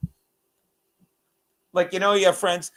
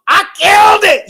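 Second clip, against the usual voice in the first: loud, high triumphant shout; 12 semitones higher, 12 dB louder than usual. Real, not acted. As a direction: yell it out in triumph. Loud boast about his joke.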